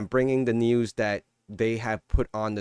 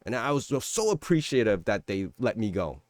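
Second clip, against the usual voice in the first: mock fired worker. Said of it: "You're gonna be like".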